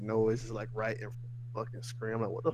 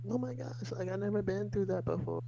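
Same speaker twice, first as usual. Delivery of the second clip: excited mock quote; 8 semitones higher, 6 dB quieter than usual. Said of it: "imagined excited moviegoer".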